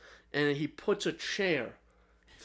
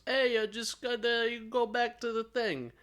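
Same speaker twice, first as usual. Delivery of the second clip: high-pitched, put-on villain quote; mock villain voice; 9 semitones higher than usual. Game villain talking to the player through the TV, mock villain voice. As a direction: imitate the villain in a raised, put-on voice.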